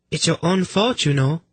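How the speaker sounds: very high, sweet female voice; high-pitched, politely innocent messenger; chirpy lady. Acted. Lady offering a drink to sufferers, sweetly chirpy. Voices Prala chiding the king.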